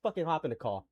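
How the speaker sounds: low, quiet, fed-up order; irritated muttering. Real, not acted. Streamer tells caller to join the call, muttering irritably. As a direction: drop to a low, terse grumble.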